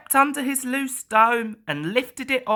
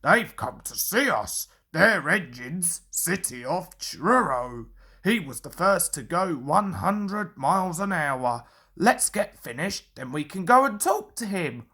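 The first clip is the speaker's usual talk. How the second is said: driver's voice; 3 semitones lower than usual. Acted. Driver character voice.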